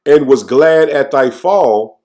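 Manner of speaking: slow, solemn reading of the verse; slow scripture reading. Acted. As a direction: lay out each phrase of scripture slowly. Reads scripture slowly in sermon.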